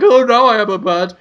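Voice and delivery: lightly hammed-up cartoon enchantress; mock sorceress. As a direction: give it a hint of wailing sorceress. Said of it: "the sorceress is like".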